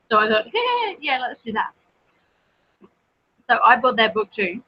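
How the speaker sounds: talking while chewing; words round a mouthful of pastry; mouth full. Real, not acted. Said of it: "I'm gonna talk with my mouth full".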